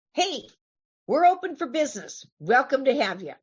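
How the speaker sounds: high-pitched, cheery open-for-business greeting; welcoming call. Acted. Voicing the group welcoming the community.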